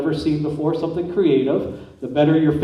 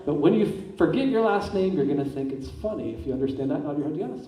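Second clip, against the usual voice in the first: hypnotic suggestion; 3 semitones lower than usual. Acted. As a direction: plant the idea gently and evenly.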